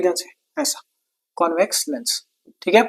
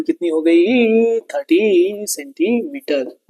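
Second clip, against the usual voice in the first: slow, stretched-out syllables; teacher's long, lingering delivery; drawn-out answer; much slower than usual. Real, not acted. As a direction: draw out every word as you announce the answer to the class. Teacher chants out the final answer.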